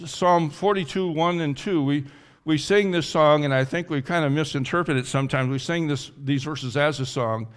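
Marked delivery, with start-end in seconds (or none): none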